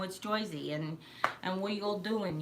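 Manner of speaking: demonstrated Jersey accent, "Joisey". Shown as a demonstration. New Yorker demonstrating Jersey talk, Jersey accent. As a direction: exaggerate the Jersey vowels. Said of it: "So you gotta be like".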